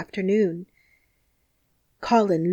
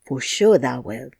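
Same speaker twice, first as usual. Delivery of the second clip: put-on firm, lower Yorkshire boy's voice; stout Yorkshire lad; 7 semitones lower than usual. Dickon firmly assures Colin he will walk, stout and lower. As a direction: reassure him with steady confidence. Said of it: "he said stoutly".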